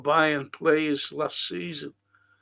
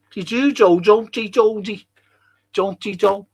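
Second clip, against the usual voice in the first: a hint of mock Diana, higher and louder; imitating Diana; 5 semitones higher, 7 dB louder than usual. Host imitating Diana talking to Dodie, high and loud. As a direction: lightly put on Diana's voice. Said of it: "That's what she used to say".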